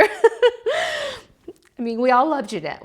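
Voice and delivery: a high, giddy laugh breaking through the words; laughing through tears. Real, not acted. To viewers about Jeanette's return, laughing through tears. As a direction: laugh it out while choking up.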